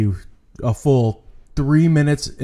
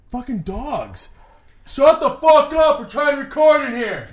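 furious cursing shout, much higher; swearing tirade; 13 semitones higher, slower than usual. Real, not acted. Yelling at barking dogs mid-recording.

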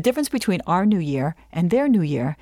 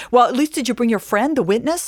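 higher-pitched, exasperated questioning; mock mounting panic; 4 semitones higher, 3 dB louder than usual. Lawyer asks client about the witness, freaking out. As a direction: act out a lawyer losing it. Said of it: "freaking out more".

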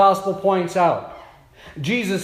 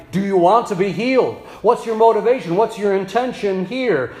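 forceful direct question; faster than usual. Shown as a demonstration. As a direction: press the question home. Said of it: "Direct question".

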